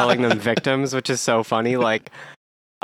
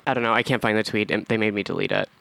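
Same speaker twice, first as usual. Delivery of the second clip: hungover. Real, not acted. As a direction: speak like a bad hangover. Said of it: "I'm so hungover".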